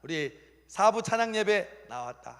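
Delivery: high, loud cry of delight; hammed-up joyful marveling; overjoyed God. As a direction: celebrate each small step proudly. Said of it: "하나님이 기뻐하시는 거예요".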